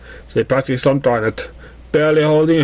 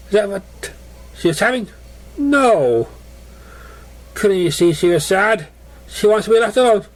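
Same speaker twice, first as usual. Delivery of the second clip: pleading pony; 5 semitones higher than usual. Acted. Voices sad pony pleading.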